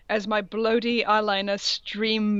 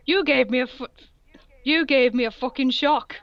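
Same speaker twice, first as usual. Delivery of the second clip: mock angry shout; 4 semitones higher than usual. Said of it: "I shouted angrily".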